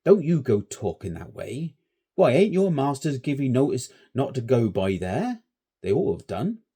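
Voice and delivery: put-on shepherd warning boys off the well; warning old shepherd. A narrator's reading. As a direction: wag a finger at the boys.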